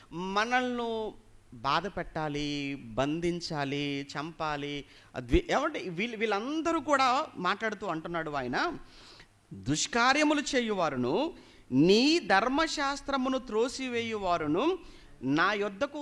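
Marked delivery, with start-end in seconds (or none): 0.1-4.9 drawn-out listing. Real, not acted. Drawn-out list of enemies' intentions. 9.5-16.0 scripture proclamation. A narrator's reading. Repeats the psalm verse.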